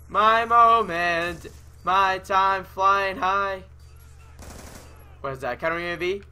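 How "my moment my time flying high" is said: slow gloat. Real, not acted. Gamer gloating over his big play.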